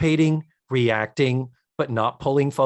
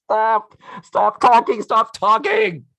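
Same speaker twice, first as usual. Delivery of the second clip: mock pleading; 8 semitones higher, 5 dB louder, slower than usual. Real, not acted. Host begs character to stop.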